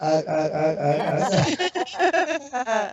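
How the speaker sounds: a stammering, flustered wife, pitch jumping high. Retold or imitated. Wife stunned at meeting the show's star, stammering. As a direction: imitate her tripping over the word, lost for words. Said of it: "she went".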